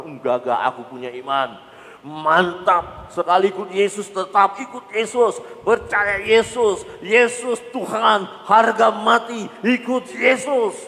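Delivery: high, loud, slow declaration of faith; confident vow. Pretend. Believer declaring firm faith at the start, high loud and slow. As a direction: proclaim unshakable faith. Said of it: "Tadinya awalnya kita berkata".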